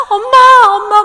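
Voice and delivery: high, loud tearful cry for mom; crying child calling. Retold or imitated. Son coming home crying, calling his mother, wailing. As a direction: wail for mom like a crying boy. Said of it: "울면서 오는 거예요".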